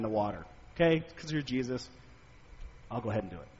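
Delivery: quiet, weary put-upon fisherman; humoring the boss with a sigh; a mild show of strained patience; forced patience. Retold or imitated. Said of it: "his sort of forced patience".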